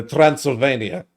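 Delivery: light attempt at a Transylvanian accent. Asked for his best accent, tentative Transylvanian accent. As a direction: try a mild Transylvanian accent. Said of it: "do your best Transylvania accent".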